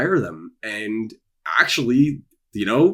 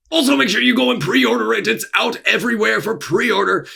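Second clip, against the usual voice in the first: much higher, louder chirpy voice; squeaky sales plug; 13 semitones higher, 5 dB louder than usual. Pretend. Author hamming up a pre-order plug for viewers in a squeaky voice. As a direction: pitch it like a cartoon salesman.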